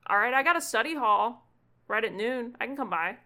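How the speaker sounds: put-on a kid jumping at the chance to come over; eager kid. Gunther offers to come by Ewan's office, eager loud kid voice.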